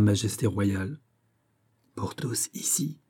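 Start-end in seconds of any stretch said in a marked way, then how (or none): 1.9-3.0 slow, hushed whisper in the ear; murmured whisper. A narrator's reading. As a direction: whisper it slowly, for one listener only. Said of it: "murmura Fouquet à l'oreille d'Aramis". (murmuré lentement à l'oreille)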